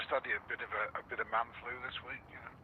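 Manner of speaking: sounding sick with man flu. Real, not acted. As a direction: talk like you've got a cold. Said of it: "Are you sick?".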